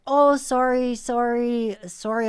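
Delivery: high, loud flustered apology; panicked apology, imitated. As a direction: mimic a caught man apologizing in a hurry. Intruder apologizes through the door.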